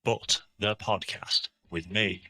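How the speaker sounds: tinny, distant mic sound; like talking from inside a tin can. Real, not acted. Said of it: "you sound like you're in a tin can".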